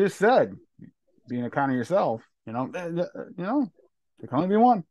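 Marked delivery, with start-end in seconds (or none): 4.2-4.8 booming movie-trailer line, louder; dramatic Highlander quote. Retold or imitated. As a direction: proclaim it like the Highlander. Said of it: "this ain't the Highlander".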